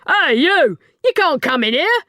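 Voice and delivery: loud, high warning shout; builders shouting. Acted. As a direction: bellow at the trespassing kids. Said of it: "shouted the builders".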